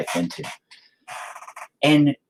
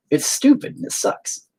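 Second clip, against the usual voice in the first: breaking despair; 13 semitones higher than usual. Real, not acted.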